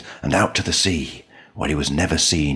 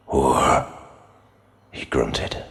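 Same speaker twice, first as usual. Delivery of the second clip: menacing farmer; 5 semitones lower, slower than usual. Acted. Grim farmer threatens Mary.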